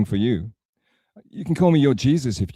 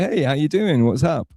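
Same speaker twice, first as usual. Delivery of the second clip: mock cheerful greeting; 4 semitones higher than usual. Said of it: "She'll say".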